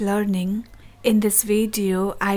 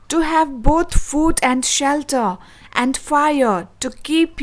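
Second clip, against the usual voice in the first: a stern rebuke, rising louder on form; angry saint; 3 semitones higher, 6 dB louder than usual. Acted. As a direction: curse her as the hungry, offended saint. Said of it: "good Saint Peter grew angry".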